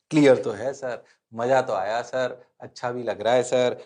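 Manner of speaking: low put-on pupil voice; half-sure student. Students telling the teacher it is clear, half-sure. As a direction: answer like a dutiful, unsure student.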